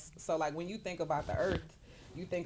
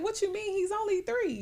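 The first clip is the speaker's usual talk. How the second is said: much higher, incredulous; disbelieving mom, much higher; shocked. Retold or imitated. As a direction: act stunned, voice jumps up. Retelling her shocked reply.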